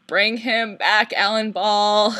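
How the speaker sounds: calling out. Real, not acted. Calling out to the showrunner.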